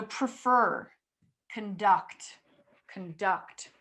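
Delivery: "prefer", "conduct" with weak first syllables and clear, stressed second ones. Shown as a demonstration. Teacher modeling words for students, second syllable stressed. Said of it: "on the second syllable".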